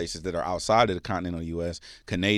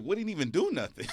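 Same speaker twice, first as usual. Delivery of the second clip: laughing quote; 9 semitones higher than usual. Retold or imitated. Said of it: "I was like".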